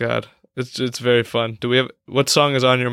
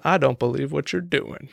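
Frank Underwood; 3 dB quieter than usual. Pretend.

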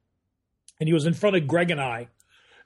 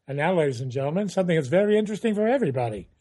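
Gary Owens announcer voice; faster than usual. Retold or imitated. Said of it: "to get that voice down".

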